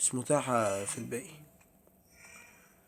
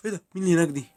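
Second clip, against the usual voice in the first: sharp gasp, then a higher startled question; 4 semitones higher, 4 dB louder, much faster than usual. Real, not acted. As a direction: jump at the sight and ask who's there. Sudden figure appears in horror game. (شهقة مفاجأة وسؤال مخضوض)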